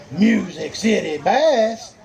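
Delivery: drawn-out team call. Real, not acted. Weigh-in emcee calls next team up, drawn-out announcing. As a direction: stretch each word of the team name.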